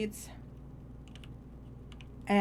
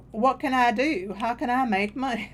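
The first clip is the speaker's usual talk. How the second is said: light Appalachian twang, a little raised; put-on Appalachian accent; 3 semitones higher than usual. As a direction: slip into a Mount Vernon Appalachian accent. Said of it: "I start using an accent".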